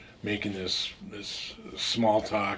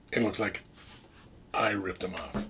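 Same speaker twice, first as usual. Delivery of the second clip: breathy hushed aside, as if sharing a secret; hushed whisper. Retold or imitated. Narrator whispering how it looked to Larry, hushed. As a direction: drop to a whisper on the punchline. Suspicion lands on the teller.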